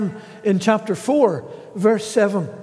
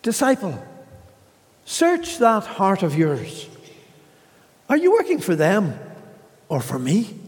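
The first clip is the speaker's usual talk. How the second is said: 부드럽고 다정하게 타이르는 주님; tender Lord. Acted. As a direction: gently chide the disciple, not stern. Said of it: "he answered me tenderly".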